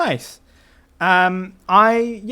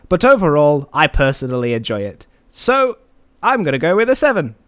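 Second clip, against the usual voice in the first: Jacob voice; 4 dB louder than usual. Pretend. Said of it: "let's ask Jacob".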